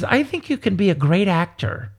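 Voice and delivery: lightly voiced high-pitched mentor; Miss Epps, high-pitched. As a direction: imitate a mentor, pitched a little up. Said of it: "with this high-pitched voice that she had".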